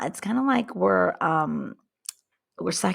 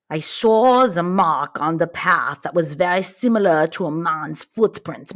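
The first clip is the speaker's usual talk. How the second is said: put-on Russian accent; 3 dB louder than usual. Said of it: "like my Russian accent did".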